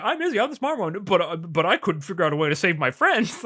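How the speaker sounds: quick hammy villain quote; fast mock villain voice. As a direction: rattle it off like a gloating villain. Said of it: "He was like".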